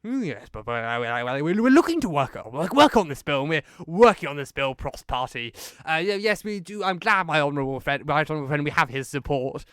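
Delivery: lightly hammed-up waffling PM; Boris impression. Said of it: "Boris saying".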